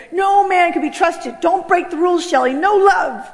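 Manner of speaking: acted fierce distrust; vehement warning. Inner rule voiced in distrust.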